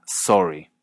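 "sorry" for sore-y, with closed aw-o. Shown as a demonstration. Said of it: "como adolorido se diría".

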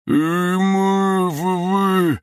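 high, panicked gagged cry; muffled terrified cry. Acted. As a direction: wheeze through a gag, high and scared. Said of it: "захрипел перепуганный школьник".

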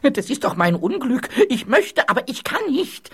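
rising, high-pitched desperate complaint; distressed wailing. Acted. Ghost explains to king he is stuck, rising distressed wail. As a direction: build to a helpless wail.

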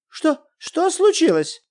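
startled wife rushing in; frightened wife. Acted. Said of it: "испуганная Елена Николаевна". (испуганный, высокий голос жены)

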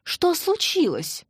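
a startled mother's slow cry; worried and excited. Acted. Mother hears her son unexpectedly, high and anxious. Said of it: "взволнованно спросила мама".

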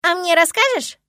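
put-on a small child begging to be told too; little girl. A narrator's reading. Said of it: "Девочка обхватила его лицо".

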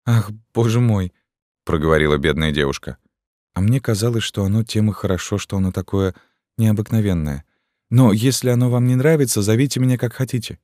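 lightly voiced, hurt girl's plea; a girl offended about her name; hurt young girl. Gypsy girl answering the captain, a hint of hurt.

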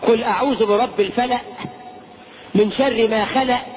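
"الفلق" and "خلق" ending in glottal stops; wrong Quran pronunciation. Shown as a demonstration. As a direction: recite with "الفلق" as "fala'" and "خلق" as "khala'". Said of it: "ينفع تنطق القرآن كده؟".

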